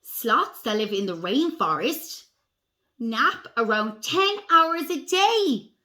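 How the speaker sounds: slow, deliberate storybook reading; picture-book read-aloud. A narrator's reading. Reading sloth facts to children, slow storybook voice. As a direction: read slowly to young children, weighting key words.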